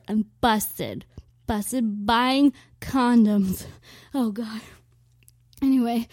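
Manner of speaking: breathless after the rant; puffing for air between words; out of breath. Real, not acted. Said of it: "I'm out of breath".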